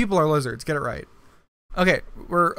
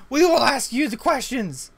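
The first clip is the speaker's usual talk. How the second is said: put-on German accent; 7 semitones higher than usual. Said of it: "in the German accent".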